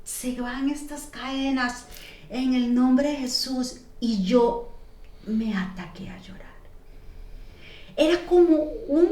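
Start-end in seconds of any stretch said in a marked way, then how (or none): 0.0-3.8 a light soft slow prayer; slow hushed blessing. Retold or imitated. Imitating the lady praying softly over her. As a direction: ease it out like a gentle exorcism. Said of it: "y me hace".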